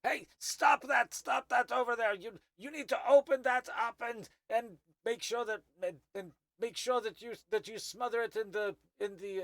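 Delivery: high, loud urgent commands across the room; shouting orders. Acted. Old Thri-kreen yells at workers fighting the fire, loud and high.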